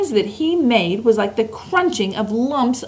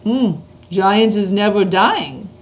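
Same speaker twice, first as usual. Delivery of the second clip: big booming slow giant; BFG giant voice; slower than usual. Acted. Reads the BFG's lines.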